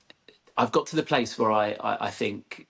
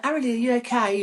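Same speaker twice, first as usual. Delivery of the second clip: high, bright, doting mother voice; sing-song mum voice; 14 semitones higher, 3 dB louder, faster than usual. Retold or imitated. Mother greeting her daughter at the door, high doting sing-song. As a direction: coo it like a fussing parent. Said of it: "I was like".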